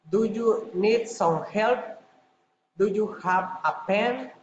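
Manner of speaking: yes-or-no questions lifting on "help" and "pen"; rising intonation. Shown as a demonstration. Teacher demonstrates general questions, rising intonation on "help" and "pen". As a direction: end "help" and "pen" on a rise. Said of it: "rising intonation".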